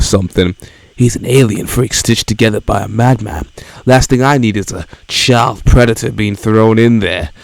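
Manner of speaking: edgy brooding hero voice; Shadow voice. Acted. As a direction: grumble it like a gruff loner. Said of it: "my Shadow voice".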